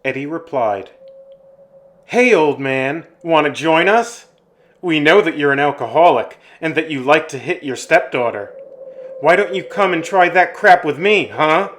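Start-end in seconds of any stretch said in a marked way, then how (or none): 2.1-11.7 loud, goading retort; taunting challenge. Acted. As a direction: taunt him and dare him to fight. Teen taunts the angry farmer.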